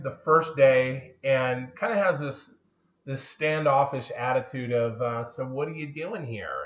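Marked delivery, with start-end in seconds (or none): 5.2-6.6 weaselly voice. Retold or imitated. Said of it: "little whiny, little weaselly voice".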